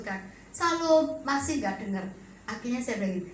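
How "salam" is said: gentle greeting. Retold or imitated. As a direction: say it politely without pushing. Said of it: "Suami saya orang yang kan lembut".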